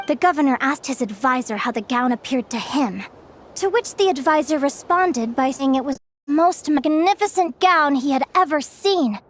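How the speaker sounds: measured fairy-tale telling; storyteller narration. A narrator's reading. Storyteller telling children of the governor and tailor, measured narration. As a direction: tell it like a folk tale, phrase by phrase.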